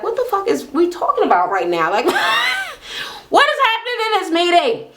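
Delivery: high, fast, laughing in disbelief. Retold or imitated. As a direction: burst out laughing at the absurd meeting. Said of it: "And then Laura's like".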